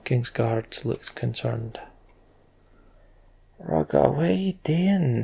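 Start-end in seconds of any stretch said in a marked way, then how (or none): 3.6-5.2 alarmed call. Acted. King alarmed as Rugga approaches.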